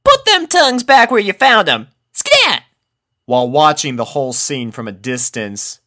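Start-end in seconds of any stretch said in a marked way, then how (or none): 0.1-2.6 playful Apple Bloom voice. A narrator's reading. Apple Bloom pushing pups off.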